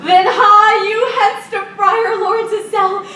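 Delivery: high, slow excited shout; excited announcement. Acted. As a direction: announce it with glee. Nurse announces wedding.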